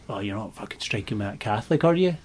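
sneering mock boss. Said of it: "you're like".

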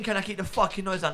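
high, disbelieving echo of their words; mocking the neighbour in disbelief; incredulous mock repeat. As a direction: throw their line back in disbelief. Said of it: "What do you mean".

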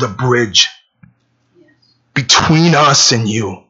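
slow, measured praying with long pauses; earnest prayer. Real, not acted. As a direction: address God reverently, phrase by phrase. Leads a closing prayer.

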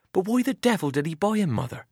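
put-on a young farm lad fussing over a soaked horse; eager boy Albert. A narrator's reading. Albert pleading with his mother over the wet horse, eager boy's voice.

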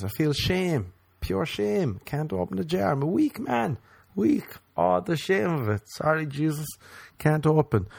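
high hammed-up lament; mock shame. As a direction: whine about your shame like a tragic hero.

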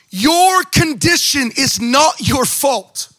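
preacher voicing Jesus telling the blind man it's not his fault; slow proclaiming rabbi. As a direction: proclaim it like a rabbi giving a verdict. Preacher voices Jesus's verdict.

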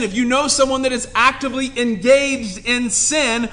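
ordinary talk

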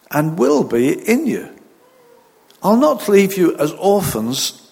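measured, solemn Bible reading; scripture reading. Acted. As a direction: read the verses with weight and pauses. Reads scripture aloud.

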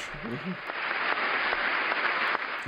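long, quiet unvoiced chuckle; soft laugh. Real, not acted. Viewer amused after cheering Megan, soft breathy laugh. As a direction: laugh softly, mostly on breath.

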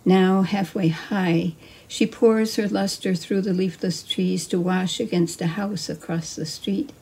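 calm, measured poetry recital; poem reading. Acted. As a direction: read it unhurried, savoring the images. Reads her poem.

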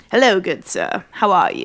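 put-on Ben Franklin in a British accent; prim British accent, old-fashioned gent. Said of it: "I didn't know you were British".

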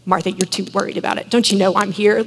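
quick, tut-tutting reproach; a quick chiding tone; mock scolding. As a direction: scold her like a fussy parent. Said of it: "tisk tisk".

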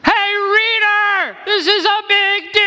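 grab the reader by the collar with an urgent shout; urgent call. Acted. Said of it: "it means something like this".

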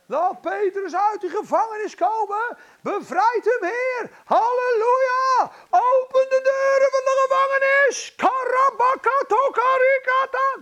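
high, roaring intercession at full force; storming prayer-meeting bellow; fervent shouted prayer. Acted. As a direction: cry out to heaven, long held shouts. Acts out congregation's fervent prayer.

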